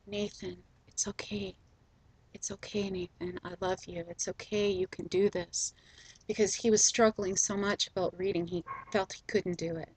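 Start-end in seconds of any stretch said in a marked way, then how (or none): 0.0-5.7 put-on soft, hushed comfort as if rocking a child; soothing the child. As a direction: quietly reassure a frightened boy. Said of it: "rocking him back and forth and saying".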